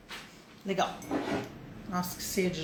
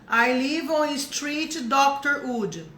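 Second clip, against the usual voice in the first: slow, mocking literal English; mock wrong translation; 3 semitones higher, much slower than usual. Shown as a demonstration. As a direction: show the silly translated address. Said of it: "Imagina lá".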